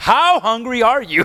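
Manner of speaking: fired-up, swooping blasting shout, high and rising. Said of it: "I was gonna say it, like, blasting".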